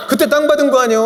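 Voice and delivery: high-pitched Chungcheong needling question; Chungcheong dialect. Retold or imitated. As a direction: imitate a sly Chungcheong local, voice lifted. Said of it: "충청도식 화법인 거예요".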